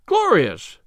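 host delighted by the advertisement; excited exclamation. Acted. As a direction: gasp out the good news. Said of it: "gasped our host".

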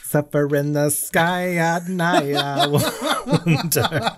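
slow laughing mock poem; poetry recital. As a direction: recite it slowly and grandly.

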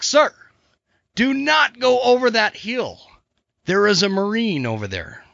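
mock-panicked report to a superior; frantic soldier. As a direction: play a frantic soldier warning his commander. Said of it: "he's just frantic".

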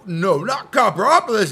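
arguing other self. Retold or imitated. Inner argument, other voice.

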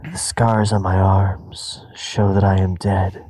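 slow, hushed dramatic recitation; cheesy poetry. Acted. Reading the title card poetry in a slow hushed voice. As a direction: whisper the bad poetry slowly. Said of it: "cut to title card".

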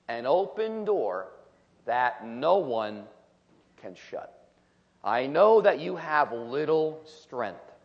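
slow, solemn reading of scripture. Acted. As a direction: read each phrase deliberately, with weight. Reads scripture aloud.

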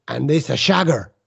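mock Italian "sugar" said as "shagger"; bad Italian accent. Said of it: "sugar is what he was getting at".

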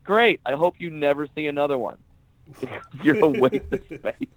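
high, sarcastic mock cheer, then a quick jab; cheerful, cutting sarcasm; sarcastic put-down with a laugh; retold put-down. Retold comeback to heckler.

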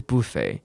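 "buffet" as BUH-fay, front stressed; second British variant. Shown as a demonstration. Teacher offering another British form, "buffet" as BUH-fay. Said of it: "或是念成".

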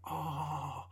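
swooning reaction. Retold or imitated. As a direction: draw it out, swooning over the words. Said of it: "I was just like".

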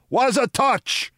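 high, slow puzzled thug voice. A narrator's reading. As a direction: squeak it out, baffled.

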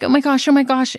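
mock panic, lightly done; imitated panic. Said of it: "and, like, panicking".

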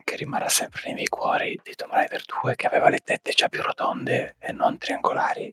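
whispering. Real, not acted. Whole ASMR podcast whispered.

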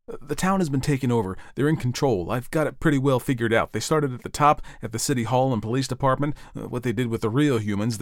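urgent Ed. Acted. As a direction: lay out the danger insistently.

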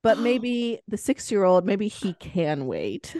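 lightly voiced bossy eight-year-old; mock little girl. Mother imitates the friend lecturing her, a hint of a prim girl. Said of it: "She was like".

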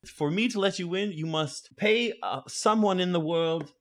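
high, slowing pronouncement; stately high owl voice; owl keeper. Acted. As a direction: lay down the rule slowly as a high-voiced owl. Owl states the entry rule.

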